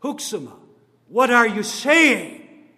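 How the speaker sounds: put-on a grieving appeal to an old leader; groaning lament. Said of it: "I groaned in my spirit".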